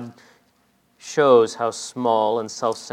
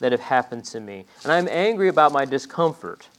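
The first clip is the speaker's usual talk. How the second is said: angry Jonah; 2 semitones higher than usual. Acted. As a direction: insist on your grievance, worked up. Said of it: "And Jonah's saying".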